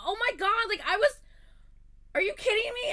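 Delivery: very high, loud incredulous shout; hammed-up disbelief at the friend; outraged yell. Yelling at Allison over the album, shrill outraged shout.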